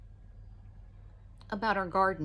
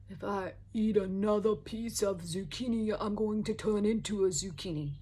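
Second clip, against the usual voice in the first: a light New York accent, mock exasperated; New Yorker accent. Husband fed up with zucchini, light New York accent. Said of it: "That was my New Yorker accent".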